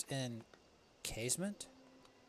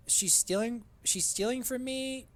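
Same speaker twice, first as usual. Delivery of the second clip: higher, indignant cry, slowing at the end; outraged gamer; mock outrage; 10 semitones higher, 4 dB louder, slower than usual. Real, not acted. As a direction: act scandalized at the thief. Outraged at thief.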